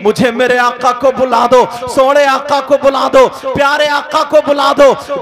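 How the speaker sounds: loud, weeping plea for her master; mild weeping plea. Acted. Hafsa begging to call her master, weeping plea. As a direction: beg through tears, full voice. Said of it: "रोने लगी और रोने लगी, कहने लगी".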